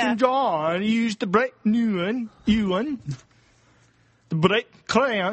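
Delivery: sing-song Welsh accent. Shown as a demonstration. Podcaster repeating the practice line, sing-song Welsh. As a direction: swoop up and down in Welsh. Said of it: "it goes up and down".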